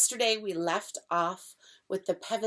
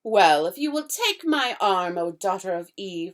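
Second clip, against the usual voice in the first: grand, inviting faun voice; the faun charming Lucy with grand words; fawn's voice, politely coaxing; courtly fawn; 9 dB louder than usual. Acted. Fawn voice held.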